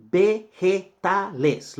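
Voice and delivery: teacher repeating vegetales slowly; slow model word. Shown as a demonstration. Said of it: "teacher models word".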